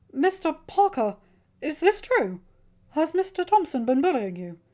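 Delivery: a headteacher asking gently but seriously; principal. A narrator's reading. Principal questioning the student about bullying, concerned.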